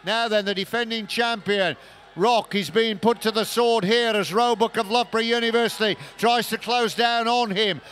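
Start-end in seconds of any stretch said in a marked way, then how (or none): 2.2-7.8 rising excitement at a close finish; excited race call. Real, not acted. Commentator as the champion holds off Roebuck, excited race call. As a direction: drive the finish home.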